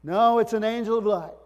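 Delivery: high, loud mock protest; acted cry of disagreement; loud objection. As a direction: object forcefully, as a doubter would.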